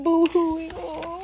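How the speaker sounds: high little boo-hoo; mock crying. Baby llama is still crying, mock boo-hoo. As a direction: wail it playfully. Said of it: "he's still crying".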